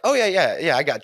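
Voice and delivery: trying to be cool. Retold or imitated. The scared kid brags to the narrator, mock cool. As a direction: fake it like it's no big deal. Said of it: "trying to be cool".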